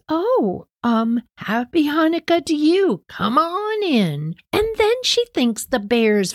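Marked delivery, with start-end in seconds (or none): 0.1-4.3 lightly voiced sweet old lady, a bit higher; a hint of a tiny old woman welcoming a guest. Nearly blind old lady greeting the rabbi, lightly higher and sweet. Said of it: "she says".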